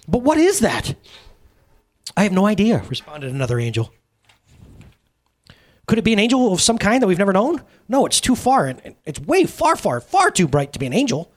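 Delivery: a hint of anxious heavenly beings; lightly voiced angels. Angels at heaven's gate questioning each other, mildly worried. Angels debate the bright figure.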